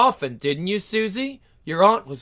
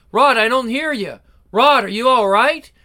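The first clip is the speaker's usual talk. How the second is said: anxious calling; 4 semitones higher, 5 dB louder than usual. Acted. Searching the surf for him.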